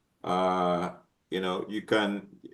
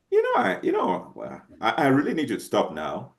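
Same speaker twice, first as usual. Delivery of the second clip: gentle request. Shown as a demonstration. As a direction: ask kindly, almost pleading. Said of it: "I'm saying the same words, the way I'm saying it".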